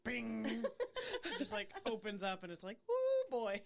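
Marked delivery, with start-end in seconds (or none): 2.9-3.6 high, loud whoop; mock amazed cry. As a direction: burst out in playful amazement. Acting out video's sudden reveal.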